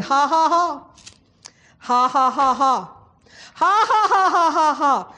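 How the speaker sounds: put-on laughter in measured bursts; imitated forced laugh. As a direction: act out someone making himself laugh. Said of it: "He just started saying".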